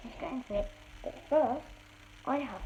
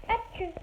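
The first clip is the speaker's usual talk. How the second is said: small fake sneeze; 7 semitones higher, 4 dB quieter than usual. Shown as a demonstration. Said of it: "The small one".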